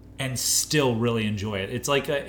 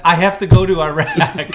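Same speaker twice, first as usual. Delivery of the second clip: mock George Bush; 5 semitones higher, 10 dB louder than usual. Mocking friend's George Bush.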